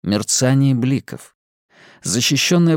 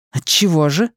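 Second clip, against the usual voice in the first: woman's voice; 5 semitones higher than usual. Acted. Simona demanding.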